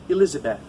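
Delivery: "Elizabeth" ending on a light, short "th"; light final th. Shown as a demonstration. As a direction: end "Elizabeth" on a gentle breathed "th". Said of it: "it's not a strong push. It's light".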